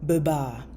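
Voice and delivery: biba as "buh-baah" with a long falling A; repeat-after-me model. Shown as a demonstration. Teacher asks learners to repeat, biba with a long A. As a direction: model biba clearly with a stretched last A. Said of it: "repeat after me".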